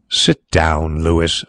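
low, smooth invitation; suave. A narrator's reading. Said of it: "said Carrados suavely".

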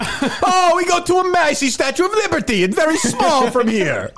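high, laughing fake Irish lilt; hammed-up Irish accent, laughing; mock Irish accent. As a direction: imitate Danny Nucci's Titanic brogue. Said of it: "Danny Nucci in Titanic".

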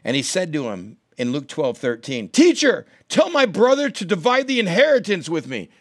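high, loud call over the crowd; shouting from the crowd. Retold or imitated. A man in the crowd shouts at Jesus, loud and high. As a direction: yell it out to interrupt the teacher. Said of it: "this guy now shouts in the crowd".

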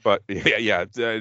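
ordinary delivery

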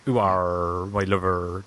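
broad West Country burr, drawn-out r; Bristol country accent. Shown as a demonstration. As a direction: put on a rural Bristol accent. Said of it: "that type of accent".

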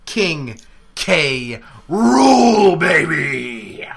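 crying out with laughter; triumphant yell; megalomaniac rant. Real, not acted. Declaring himself King K. Rool.

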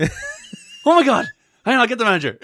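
high, very slow mock alarm; mock panic. Bartender retelling customer, hammed-up panic. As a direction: act out a flustered waiter's oh my god. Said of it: "acting the waiter's reply".

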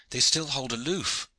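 high-pitched, mild cry. A narrator's reading. Hawtayne watching the galleys keep away, crying out. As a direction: call it out high without really shouting. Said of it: "cried Hawtayne".

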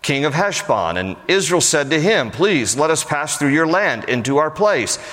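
formal Bible reading voice; scripture reading. Acted. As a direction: read the passage aloud to the congregation. Reads scripture aloud before explaining.

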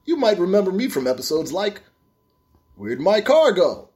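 a hint of a late-night TV host; infomercial voice. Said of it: "This is my, uh, infomercial voice".

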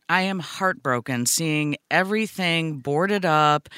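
slow, sincere sorrow; heartbroken, slowed. Real, not acted. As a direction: let the sadness slow each word.

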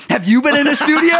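laughing through the imitated question; mock question, laughing. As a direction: repeat the ask while cracking up. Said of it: "you just turn around and go".

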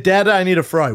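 put-on high, loud toddler asking; little kid voice. Toddler to dad, high asking voice. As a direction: imitate a small kid begging. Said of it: "He said".

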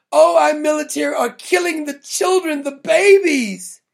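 whiny mock-outraged protester, drawing out the babies. Mocking the anti-war crowd, whiny mock outrage. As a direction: parody a hand-wringing activist.

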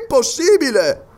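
high, projected exclamation; Paganel exclaiming. Acted. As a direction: cry out in disbelief, falling at the end. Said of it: "esclamò Paganel".

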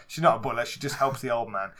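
normal talking voice

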